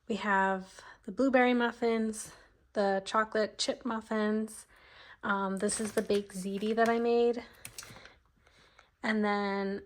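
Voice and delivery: breathless, short shallow breaths; talking while catching breath. Real, not acted. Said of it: "sorry, I'm out of breath".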